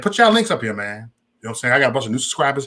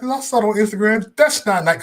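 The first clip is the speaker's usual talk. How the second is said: higher-pitched mock scolding; disapproving mama; 7 semitones higher than usual. Son mimics his mama objecting to the shirt, disapproving. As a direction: imitate a mother tutting. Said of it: "my mama saw that mask".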